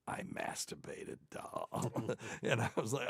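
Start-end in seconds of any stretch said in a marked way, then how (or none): 0.0-1.7 whispered confession. Retold or imitated. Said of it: "looked at me and said".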